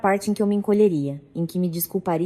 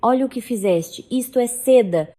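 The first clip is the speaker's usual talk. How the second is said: angry; 5 semitones higher, 4 dB louder than usual. Acted. Carla furious over wine stain.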